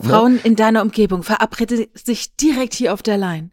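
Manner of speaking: mock radio spot pitching the line; phone sex ad. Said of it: "Telefonsex, null hundertneunzig".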